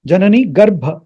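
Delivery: Garbha with a puff of H after the B; aspirated bh. Shown as a demonstration. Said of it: "that H sound after the B".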